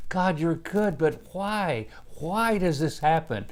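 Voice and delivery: questioning God. Acted. Preacher voicing believers asking God why, questioning. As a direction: put a troubled question up to God.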